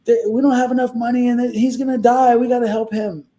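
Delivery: high, urgent retold panic; freaking out. Friend arriving at the hospital to plead for him, freaking out. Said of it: "I remember her freaking out".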